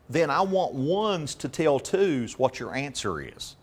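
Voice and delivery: slow, careful classroom instruction; slow directions. Shown as a demonstration. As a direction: spell out each step slowly. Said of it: "specific directions".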